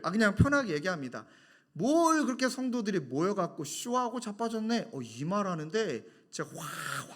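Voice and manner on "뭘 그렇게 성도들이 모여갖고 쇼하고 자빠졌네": retold scornful jeer. Caller mocking the gathered congregation, retold scorn. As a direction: imitate a sneering caller, higher pitch. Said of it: "맨 마지막에 그분 했던 이야기를".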